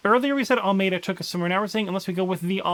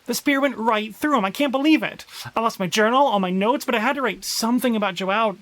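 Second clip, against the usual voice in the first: louder, distraught journal voice; shaken survivor; 3 semitones higher, 4 dB louder than usual. Acted. Player voicing a survivor's journal, shaken and distraught. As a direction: read it like you can't believe he died.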